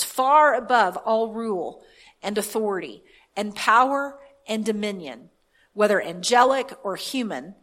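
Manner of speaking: measured reading with key words punched; scripture reading. Real, not acted. Preacher reads scripture to the congregation, deliberate scripture reading. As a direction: read it out deliberately, pausing between phrases.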